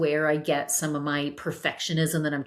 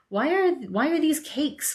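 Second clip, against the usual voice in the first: exasperated mom; 10 semitones higher than usual. Retold or imitated. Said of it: "She's like".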